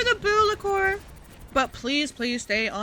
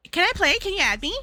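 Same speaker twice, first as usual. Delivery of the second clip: higher, pushy begging; mock pleading viewer; 7 semitones higher than usual. Streamer imitating a viewer interrupting, mock begging. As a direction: beg to join. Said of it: "they're like".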